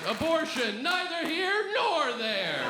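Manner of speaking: shrugging sign. Retold or imitated. Reading a shrugging protest sign.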